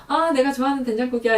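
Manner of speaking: put-on quick, high happy kid voice; a little kid delighted at his soup; excited child.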